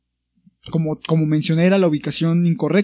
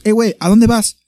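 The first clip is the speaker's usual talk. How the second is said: aggressive; 4 semitones higher, 6 dB louder than usual. Retold or imitated. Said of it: "pero así, agresivos".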